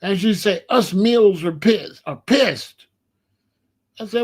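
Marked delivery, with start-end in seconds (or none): 0.7-2.9 slow, emphatic imitation of an angry daughter; mock a daughter's indignant announcement; mad as hell. Daughter declaring her generation's anger to Dad, mad. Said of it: "my daughter was mad as hell".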